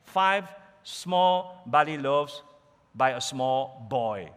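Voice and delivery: slow, each word of "Five small barley loaves" laid out, with "small" leaned on; stress on small. Shown as a demonstration. Preacher to his congregation, slowly weighting the word small. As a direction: drag out "small" so the smallness sinks in. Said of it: "So the emphasis is small".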